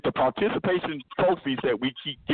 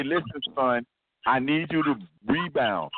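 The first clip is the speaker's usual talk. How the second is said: gentle coaxing coach; 4 semitones lower than usual. Retold or imitated. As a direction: coax the player kindly, tongue in cheek. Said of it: "he's supposed to sit down and say".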